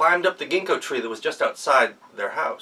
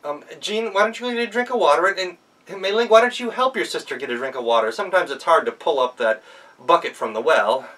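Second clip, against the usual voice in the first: put-on clever girl; 6 semitones higher, 5 dB louder than usual. Girl sends sisters away.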